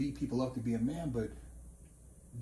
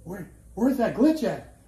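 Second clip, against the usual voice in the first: hammed-up panic; mock alarmed shout; 6 semitones higher, 10 dB louder than usual. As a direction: play the stunned onlookers. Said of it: "they like".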